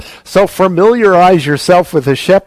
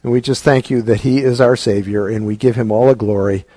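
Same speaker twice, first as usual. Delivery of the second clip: closing prayer; 3 semitones lower than usual. Acted. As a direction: pray humbly, letting each phrase settle.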